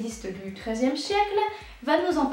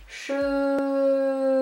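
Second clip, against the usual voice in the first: drawn-out made-up word; much slower than usual. Acted. Mot-valise inventé, étiré.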